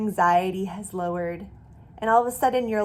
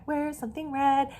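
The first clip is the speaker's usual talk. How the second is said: eager searching; 5 semitones higher than usual. Shown as a demonstration. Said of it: "demo colors search".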